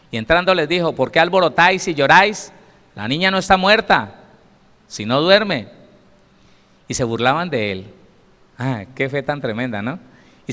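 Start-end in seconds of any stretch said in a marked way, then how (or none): 0.1-5.7 louder, emphatic reading of the verse; forceful reading. Shown as a demonstration. Preacher re-reads the verse to the congregation, louder. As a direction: proclaim it with force. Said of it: "re-reading the verse with force".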